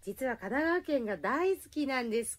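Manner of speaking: reading it off flat, no feeling; deadpan like reading a script; flat monotone reading. Real, not acted. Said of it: "棒読みで言ってる".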